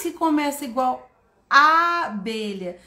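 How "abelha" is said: "abelha" with lengthened initial A; extended vowel. Shown as a demonstration. Teacher asking for the same sound, long A in "abelha". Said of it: "Vogal estendido".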